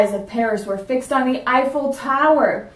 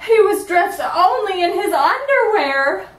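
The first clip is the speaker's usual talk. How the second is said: higher, louder, laughing narration; amused reveal; 9 semitones higher, 4 dB louder than usual. A narrator's reading. Narrator relishing the dentist's embarrassment. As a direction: deliver the reveal as a stifled laugh.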